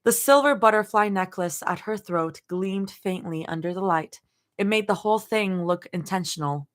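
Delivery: measured storytelling read-aloud; lightly performed audiobook narration; story narration. A narrator's reading. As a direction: narrate in short, deliberate phrases. Reads fan fiction aloud.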